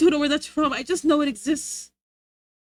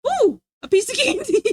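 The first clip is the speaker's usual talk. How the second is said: higher, hungry mock voice; greedy mother scorpion eyeing a snack; hungry scorpion mom; 10 semitones higher, 4 dB louder than usual. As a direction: coo over a tasty snack. Voicing greedy creature again.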